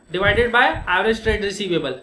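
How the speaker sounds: very slow, each word spaced for notes; teacher reading a formula for copying; slow formula dictation. Shown as a demonstration. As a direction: dictate the formula slowly to students. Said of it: "तो ये formula है".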